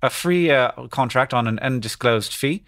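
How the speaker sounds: put-on BBC English voice; BBC English accent. Shown as a demonstration. Answering how to say a name, BBC English accent. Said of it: "this is, like, B B C voice".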